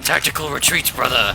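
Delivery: loud, fleeing battle cry; excited yell. Real, not acted. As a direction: shout it while running away. Fleeing enemies, yelling.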